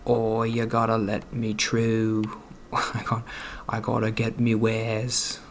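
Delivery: slow, light British accent imitating a poor trader; lazy mock British accent, drawn out slowly. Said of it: "British accents, like".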